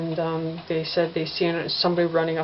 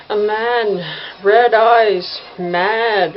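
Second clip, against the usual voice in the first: panicked stammer; 3 semitones higher, 6 dB louder, much slower than usual. Retold or imitated. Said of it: "he couldn't get it out".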